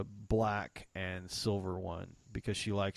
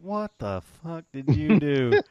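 shocked friend; 6 semitones higher, 9 dB louder, slower than usual. Retold or imitated. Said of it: "I saw it and went".

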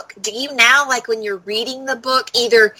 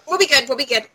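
hiccupping mid-sentence; words broken by hiccups; 3 semitones higher, faster than usual. Real, not acted. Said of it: "I've got the hiccups".

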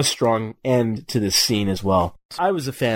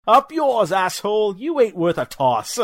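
Cockney impression; 9 semitones higher than usual. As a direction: spit it out like a cheeky Cockney thug. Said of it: "I love the Cockney stuff".

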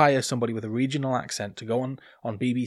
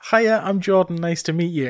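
put-on own Geordie accent; 5 semitones higher, 9 dB louder than usual. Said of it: "And I said".

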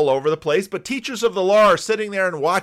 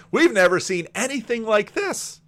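higher-pitched acted amazement; thrilled; 5 semitones higher than usual. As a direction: marvel like an excited crowd member. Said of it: "They're just thrilled".

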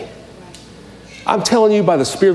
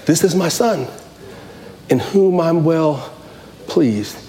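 voice of God; 2 semitones lower, 4 dB quieter, slower than usual. Acted. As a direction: lightly voice God speaking from above. Voice of God from heaven.

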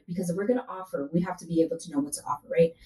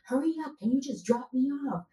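impatient mock complaint; 7 semitones higher than usual. Retelling her impatient self to boyfriend.

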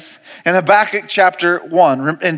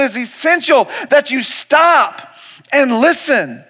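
raised, driving sermon delivery; full-force preaching; 6 semitones higher than usual. Acted. Pastor urging the church to stop and listen, preaching hard. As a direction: build insistently through each repeated phrase.

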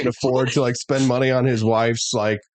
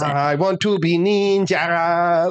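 slow, high hammed-up Asian accent; mock Asian accent; 5 semitones higher, much slower than usual. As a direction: stretch each word in a bad Asian accent. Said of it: "the really bad Asian accent as well".

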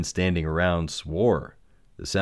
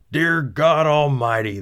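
loud, high astonished cry; amazed cry; 9 semitones higher, 6 dB louder, slower than usual. Acted. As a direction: cry out in disbelief. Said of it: "the pilot cried".

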